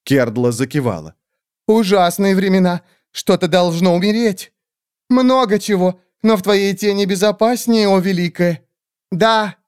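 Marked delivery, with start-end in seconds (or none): 1.7-8.6 much higher squeaky groveling bird voice; fawning creature. Acted. Skeletal bird creatures grovelling before the great witch, high squeaky. 9.1-9.6 much higher creature yelp; high squeaky shout. Acted. Kerdla shouting agreement to the witch, high squeal. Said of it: "крикнула Кердла".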